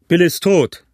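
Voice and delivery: high, forceful call; bellowed news. A narrator's reading. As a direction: yell it out to those outside. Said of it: "brüllte eine Stimme aus dem Hause".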